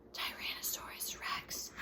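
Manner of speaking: hushed, frightened whisper. A narrator's reading. Jack spots the monster across the plain, fearful whisper. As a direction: breathe the name in fear. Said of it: "whispered Jack".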